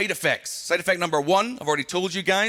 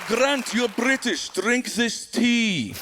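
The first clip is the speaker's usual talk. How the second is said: slow hospitable host; 3 semitones higher, much slower than usual. Retold or imitated. Imitating Russian hosts.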